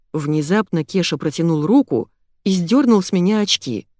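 plain reading voice

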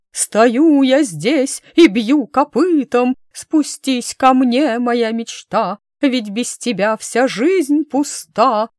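high, slow, wailing serenade; thin howling voice. Acted. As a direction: howl it out in a squeaky thin voice. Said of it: "завыл неожиданно тоненьким голосом".

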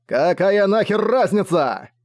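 the dragon snapping back, high and drawn out; barked. A narrator's reading. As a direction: bark it back at him in contempt. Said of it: "рявкнул Огонь".

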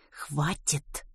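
soft, clenched-teeth warning; through gritted teeth. Acted. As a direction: hiss it through clenched teeth, holding back a shout. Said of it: "процедила сквозь зубы Рут".

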